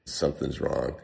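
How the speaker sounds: panicked, dropping to a hush; sinking dread, voice falling away; freaking out. Retold or imitated. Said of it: "I'm freaking out".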